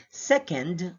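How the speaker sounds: "second" drawn out with a reduced ending; ranking pronunciation. Shown as a demonstration. Teacher models the sound for rankings, ranking pronunciation. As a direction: say "second" as in first, second, third. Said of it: "then we're talking about rankings".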